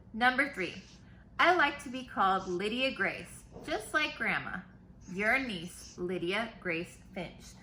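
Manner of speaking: put-on lively read-aloud for kids; reading to children. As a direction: read the letter brightly to the class. Teacher reads letters aloud.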